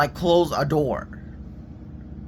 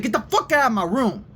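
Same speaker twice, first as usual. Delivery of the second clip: retold angry order, higher pitch; pissed off; 5 semitones higher than usual. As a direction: repeat the fed-up demand at a raised pitch. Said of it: "In that same tone".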